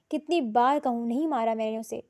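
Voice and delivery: half-hearted roar of denial. Acted. Ahil roaring his denial at her, mild. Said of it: "وہ دھاڑا".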